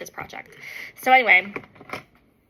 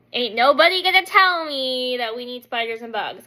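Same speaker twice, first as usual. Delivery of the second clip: louder, emphatic refusal; defiant; 7 dB louder than usual. Retold or imitated. Wife rejecting husband's case for bugs, defiant. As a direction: push back with sass.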